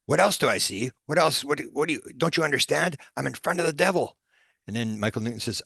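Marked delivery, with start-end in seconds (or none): 0.1-0.9 higher-pitched, indignant echo of a question; loathing. Retold or imitated. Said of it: "with loathing". 1.1-4.2 high, exasperated outburst, acted out; loathing. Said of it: "with loathing".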